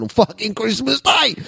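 high, rising rant; indignant high-pitched cry; exasperated outburst. Real, not acted. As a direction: let the rant climb into a squawk. Punchline of his drunken Christmas rant.

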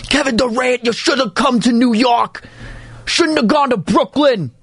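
mock a Knicks fan in a bad New York accent; terrible New York accent. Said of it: "That was a terrible New York accent".

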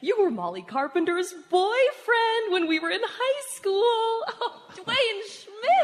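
high, giggling teasing; laughing tease. Acted. Teasing old classmate about his high school girlfriend, laughing.

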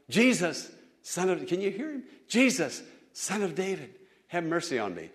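half-call the plea, held back; mild calling out. Retold or imitated. Old man calls to passing Jesus, mild calling out. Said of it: "this old man calling out".

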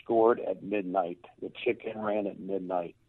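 low, slow, stunned disbelief; overcome, retold. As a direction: recall being overcome, slowing on each phrase. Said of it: "and I lost it".

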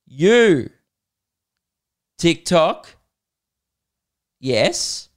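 loud halting grunt-like words, high; caveman-like fan. Retold or imitated. Comedian imitates fan's clumsy question as a caveman. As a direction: blurt each word like a caveman. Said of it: "this was her exact words".

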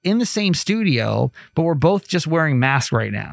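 muffled behind a mask; talking through a mask; through a face mask. Real, not acted. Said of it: "this may totally sound like I'm wearing a mask".

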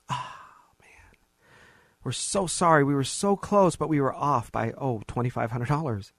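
hammed-up "oh man, so sorry"; facetious apology. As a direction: overdo the apology, then toss off the bad news. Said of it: "you know I'm being facetious".

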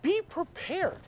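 measured, emphatic list-building; slow down on the key phrases like a pep talk; motivational speech. Acted. Teaching a friend to be prepared for hiking, emphatic speech.

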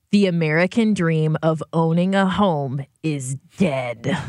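slow, low read of a doom-laden headline; grim headline read. Retold or imitated. Reading co-hosts a bleak headline from Twitter, gravely. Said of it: "why you gotta say it like that".

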